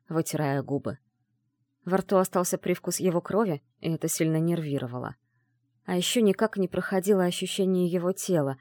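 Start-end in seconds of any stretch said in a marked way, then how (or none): none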